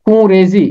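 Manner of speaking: خون ریزی with nasalised noon ghunna; pronunciation demo. Shown as a demonstration. Teacher contrasting Urdu and Persian خون ریزی. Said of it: "نون غنہ کے ساتھ پڑھتے ہیں".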